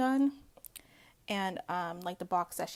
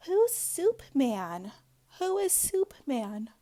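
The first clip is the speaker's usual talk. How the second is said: mock bewildered; 5 semitones higher, 6 dB louder, slower than usual. Retold confused demand.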